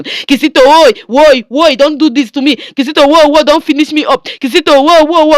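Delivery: loud wailing cries of woi; a wife wailing under her husband's blows; pained screaming plea. Acted. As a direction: beg him to stop, crying out in pain. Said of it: "Angel was screaming like a mad person".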